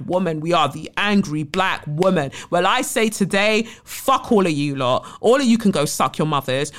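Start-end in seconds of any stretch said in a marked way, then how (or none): 2.5-6.7 defiant outburst. Real, not acted.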